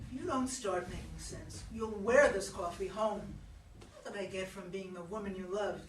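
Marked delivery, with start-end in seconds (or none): 0.1-3.2 rising to a loud threat on coffee home; angry threat. Acted. Regina threatening Anthony with the coffee pot, angry. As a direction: snap the threat, louder at the end.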